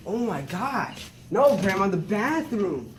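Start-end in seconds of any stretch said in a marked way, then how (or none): 1.3-2.9 yelling. Acted. Yelling to grandma on phone.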